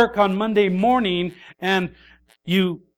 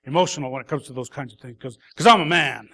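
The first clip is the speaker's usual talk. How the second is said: mock excuse; faster than usual. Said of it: "use this emotional crutch and say".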